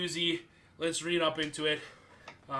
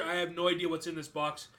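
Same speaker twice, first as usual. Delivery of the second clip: speaking with a numb mouth. Real, not acted. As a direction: lips numb from the heat. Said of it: "my mouth is still numb".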